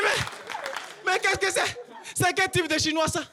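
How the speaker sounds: very high drawn-out opening, then falling; stunned disbelief. Retold or imitated. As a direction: gasp it out in shock. Stupéfait devant le Chinois. (stupeur, début très aigu)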